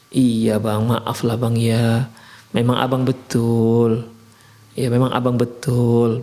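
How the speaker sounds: calm him down with slow, yielding words; gentle soothing wife. Acted. Wife soothing her angry husband, slow and gentle. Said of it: "Ini kan bisa, bisa meredakan".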